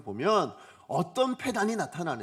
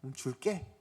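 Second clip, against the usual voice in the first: gentle consent; 5 semitones lower, 8 dB quieter than usual. Pretend. Father calmly grants inheritance.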